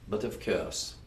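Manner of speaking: put-on a quick, light French accent; playful mock French accent. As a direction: toss it off like a Frenchman. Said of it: "Wait, that was a French accent".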